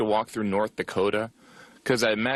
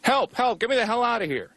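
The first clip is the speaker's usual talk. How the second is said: very high mock cry for help; desperate poem recital. Indiana boy recites his poem, mock desperate. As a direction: recite it as a high, panicked plea. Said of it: "Here's one of the poems I wrote".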